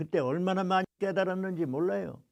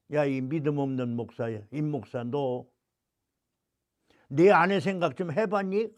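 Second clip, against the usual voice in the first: scolding God; 4 semitones lower than usual. Retold or imitated. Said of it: "야단을 치시면서".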